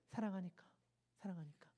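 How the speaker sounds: very soft, low, fading repetition; tender refrain. Real, not acted. Preacher softly repeating the reason to the congregation. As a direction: let the word fade away gently.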